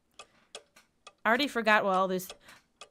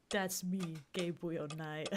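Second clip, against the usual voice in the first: imitating hero line; 5 semitones lower, 10 dB quieter, much slower than usual. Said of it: "Gabriel Knight games".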